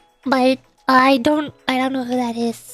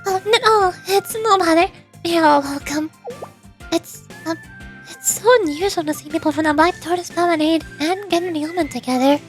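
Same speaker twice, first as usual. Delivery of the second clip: hesitant, higher-pitched welcome; flustered instructor; 4 semitones higher than usual. Acted. Instructor to visitors from rival groups, flustered. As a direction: stumble politely, trying to reassure unexpected guests.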